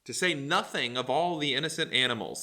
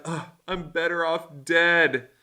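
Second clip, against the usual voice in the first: mock dramatic despair; slower than usual. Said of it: "goes off in his little dramatic self".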